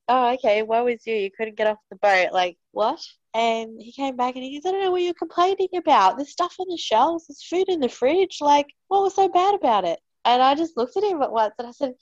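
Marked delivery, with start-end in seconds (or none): 0.1-3.0 mock sympathy. Mocking husband's complaint. 4.6-10.0 high, whiny mock of the husband's complaint. Husband quoted, mocked.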